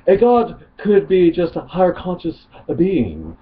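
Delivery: lightly voiced snobby cartoon baby; a hint of a snobby British cartoon baby; Stewie Griffin voice. Reading an atheist's comment as Stewie Griffin, lightly voiced. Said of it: "Stewie Griffin coming up here".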